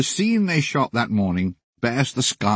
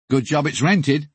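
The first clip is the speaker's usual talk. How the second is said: naughty; 5 semitones higher than usual. Retold or imitated. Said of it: "said Mick with a naughty smile".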